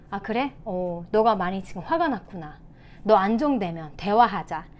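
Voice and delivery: de-escalate with an unheated reply; calm parent. Shown as a demonstration. Parent to an angry child, calm demonstration. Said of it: "대신에".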